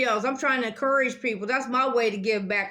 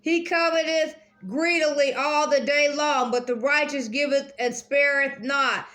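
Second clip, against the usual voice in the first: careful reread; 3 semitones higher than usual. Shown as a demonstration. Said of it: "Let me read that again".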